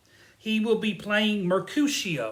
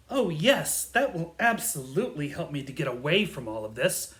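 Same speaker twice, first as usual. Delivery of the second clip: dry sarcastic agreement; pointed, sarcastic "oh yes"; 3 semitones lower than usual. Acted. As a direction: agree as if it's the worst idea. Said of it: "Lysander doesn't understand sarcasm".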